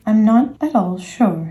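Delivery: slow, musing delivery; thoughtful. Acted. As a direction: weigh it up slowly, mildly pensive. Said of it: "in a thoughtful voice".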